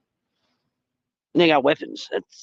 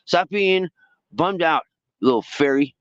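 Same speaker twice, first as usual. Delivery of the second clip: teasing lost friends; 9 semitones higher than usual. Retold or imitated. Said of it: "They'd probably say to me".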